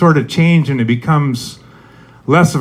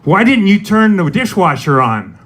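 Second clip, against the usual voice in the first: higher-pitched, lightly put-on accusation; accusing question; 5 semitones higher than usual. Significant other blaming you over the dishwasher, accusing. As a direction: ask it as a pointed reproach. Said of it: "your significant other is like".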